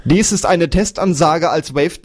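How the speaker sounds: overdriven, clipping mic sound; distorted as if the input is clipping; fuzz distortion. Real, not acted. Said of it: "das übersteuert gerade mal völlig".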